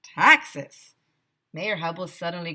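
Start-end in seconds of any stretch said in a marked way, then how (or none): 0.0-0.9 loud alarmed echo; horrified. Acted. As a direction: react in shock. Mayor reacting in horror.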